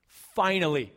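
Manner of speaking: breathy whispered aside. Real, not acted. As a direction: whisper it like a secret relief. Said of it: "whispered aside".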